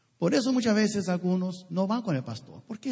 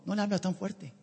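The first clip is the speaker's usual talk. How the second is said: pleading prayer; 2 semitones lower, 6 dB quieter than usual. Retold or imitated. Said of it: "¿Han orado por su pastor?".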